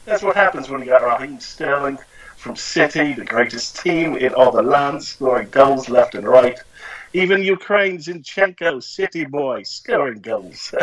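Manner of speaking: put-on English football-fan accent; poor English accent. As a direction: rant like a pundit in a badly faked English accent. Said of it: "that's my poor English accent".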